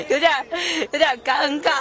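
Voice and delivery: awkward laughing words; nervous laugh. Real, not acted. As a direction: laugh through the embarrassment.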